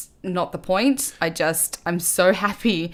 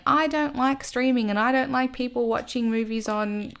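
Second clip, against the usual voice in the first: preachy filmmaker; 2 semitones higher, 4 dB quieter than usual. Retold or imitated. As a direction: reel off complaints like a preachy filmmaker, quickening at the end. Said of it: "another preachy filmmaker going out there".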